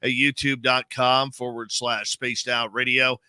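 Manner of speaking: polished radio show open; measured on-air announcer delivery; radio host read. Acted. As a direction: read the plugs like a practised broadcaster. Radio host's show open and plugs.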